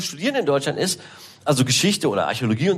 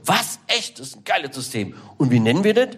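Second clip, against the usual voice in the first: a king delighted by a scheme; amazed king. Retold or imitated. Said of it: "Und der so".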